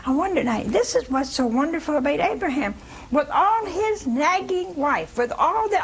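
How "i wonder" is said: doubting spouse. Retold or imitated. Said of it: "they're gonna begin to say".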